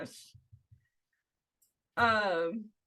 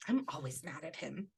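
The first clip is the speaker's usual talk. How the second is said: deadpan mutter; 6 semitones lower, 14 dB quieter than usual. Retold or imitated. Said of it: "Just how she says it".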